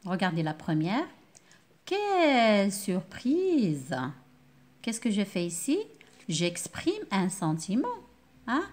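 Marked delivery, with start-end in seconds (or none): 1.8-4.0 drawn-out, very slow "Quelle surprise!"; slow exclaimed surprise; surprised exclamation. Shown as a demonstration. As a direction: stretch it out in surprise. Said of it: "je marque la surprise".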